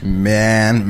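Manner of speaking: "Man" stretched into two syllables. Shown as a demonstration. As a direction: split "Man" in two, beatnik-style. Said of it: "man is a two-syllable word".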